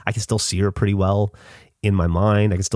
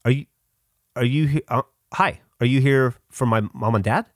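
put-on hesitant child; 5 semitones higher than usual. Child self addressing a silent stranger.

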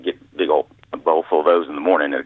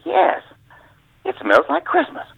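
much higher mock boss voice; imitating the boss; slower than usual. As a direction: agree dreamily in the boss voice. Boss Brisson answers, fooled.

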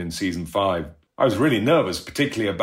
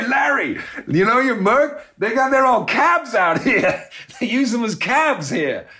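much higher mocking phone voice with laughter; teasing Andre; 3 dB louder than usual. Andre teasing Larry about his Merc, high mocking laugh. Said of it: "he rang him up and he went".

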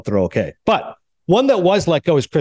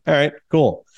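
a little drawn out and deliberate; Chris Chelios. Shown as a demonstration. Showing the host how the player talks, drawn out and deliberate. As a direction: lightly imitate a slow-talking hockey player. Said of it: "Kinda drawn out, a little deliberate".

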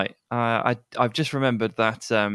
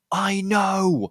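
mouthed words; 10 semitones higher than usual. Retold or imitated. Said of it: "and you mouthed".

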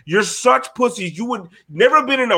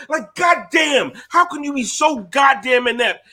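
exasperated shout. Real, not acted. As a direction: throw up your hands and shout it.

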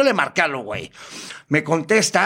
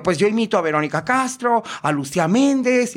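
higher, campy caller voice; name the divas in a hammed-up high voice; put-on transvestite voice; 5 semitones higher than usual. Prankster claims to be a celebrity impersonator, high camp voice. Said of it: "empecé así".

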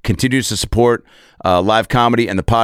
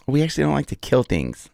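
high, soft wife's small talk; sweet, half-joking; 6 semitones higher, 5 dB quieter than usual. Retold or imitated. Wife making small talk with the son, sweet and half-joking. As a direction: say it sweetly, a little in jest. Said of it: "She said it, like, sweet, but also kinda joking".

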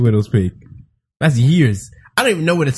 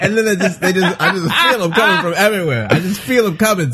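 laughing; 4 semitones higher than usual. Real, not acted. Laughing about spiders.

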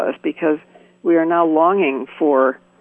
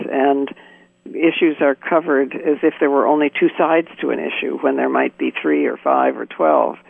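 over the phone. Real, not acted. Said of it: "We're on the phone right now".

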